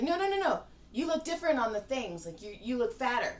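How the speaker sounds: a lightly voiced tactless fan; tactless gushing. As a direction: imitate her blurting it out. Imitating the tactless chick.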